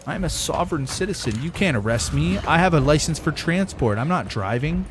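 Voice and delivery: mock-righteous know-it-all voice; mocking sovereign citizen. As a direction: parody a self-important sovereign citizen.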